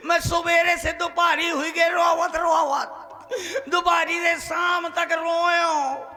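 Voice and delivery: half-joking sob through the words; mock crying lament. Wailing about no wife coming.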